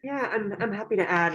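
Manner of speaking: talking through a face mask; muffled behind a face mask. Real, not acted. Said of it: "I have a mask on".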